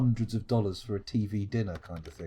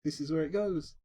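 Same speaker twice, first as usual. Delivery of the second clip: mock crying; 5 semitones higher than usual. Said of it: "like, go".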